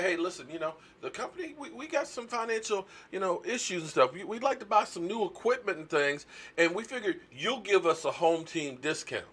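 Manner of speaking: lightly voiced boss asking a favor; mock boss voice. Boss asking worker for discount, mock wheedling pitch. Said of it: "Because they say".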